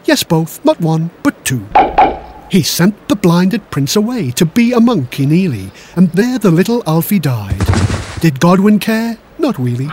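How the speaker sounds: lilting, rhythmic rhyme; singsong storytelling in rhyme; comic verse recital. Acted. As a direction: recite gory verse with a bouncy beat.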